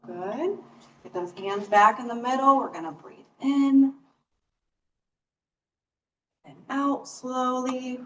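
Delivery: slow, drawn-out breathing cues; guided breathing. Real, not acted. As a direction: pace each cue to a long breath. Leads a breathing exercise.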